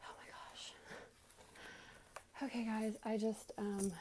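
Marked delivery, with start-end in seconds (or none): 0.0-0.7 exhausted sigh. Real, not acted. Exhausted exhale while cleaning.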